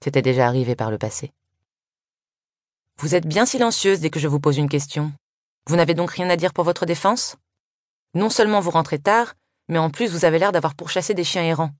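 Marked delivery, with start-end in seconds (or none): 3.0-11.7 stern scolding. Acted. Housekeeper scolding the girls.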